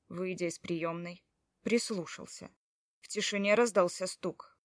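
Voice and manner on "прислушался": ordinary delivery, nothing marked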